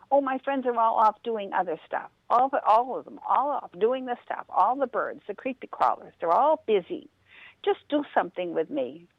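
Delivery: a restless bunny begging his friend; pleading rabbit. Acted.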